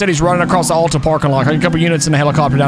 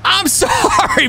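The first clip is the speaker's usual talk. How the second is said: laughing apology; much slower than usual. Real, not acted. Laughing apology after prank.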